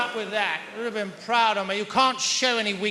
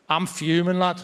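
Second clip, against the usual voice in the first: put-on simmering anger in a Scouse accent; fuming Scouse; 3 semitones lower, 4 dB louder than usual. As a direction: grumble it like a put-out Liverpudlian. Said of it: "the second state of Scouse being".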